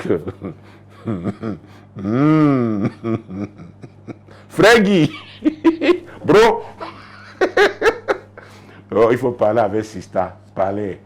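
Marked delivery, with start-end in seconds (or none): 4.5-6.6 higher, louder call through laughter. Real, not acted. Preacher calling out to brother Guy, teasing.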